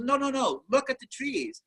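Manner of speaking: high, emphatic retold correction; imitated insistent neighbor. Neighbor correcting the artist's misunderstanding, mock exasperation.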